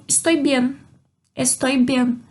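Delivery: Estoy bien, said clearly in Spanish; Spanish model phrase. Shown as a demonstration. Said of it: "A primeira resposta que a gente tem". (pronúncia modelo em espanhol)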